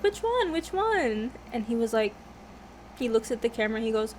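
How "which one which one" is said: high-pitched retold prodding; eager prodding. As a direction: egg a little kid on in a high voice. Imitating herself egging brother on.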